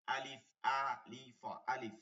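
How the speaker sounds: slow drill. Shown as a demonstration. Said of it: "teacher drilling letter name".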